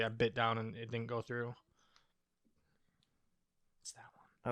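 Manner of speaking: talking while chewing; mouth full. Real, not acted. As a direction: say it round a mouthful. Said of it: "I like the noises you're putting in your mic".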